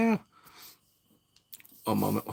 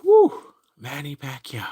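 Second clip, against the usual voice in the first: starstruck whew; 4 dB louder, slower than usual. Retold or imitated. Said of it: "I'm like".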